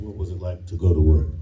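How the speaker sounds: laughing quote. Retold or imitated. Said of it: "I love the question".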